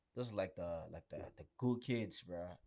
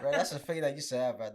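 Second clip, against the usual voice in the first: laughing; 4 semitones higher, 8 dB louder than usual. Real, not acted. Laughing at his old haircut.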